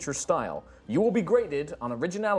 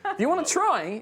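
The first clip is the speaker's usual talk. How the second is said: mocking voice; 14 semitones higher, 4 dB louder than usual. GM voices the dummy's response.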